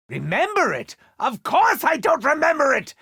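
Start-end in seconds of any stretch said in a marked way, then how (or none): 1.2-2.9 indignant outburst. Acted.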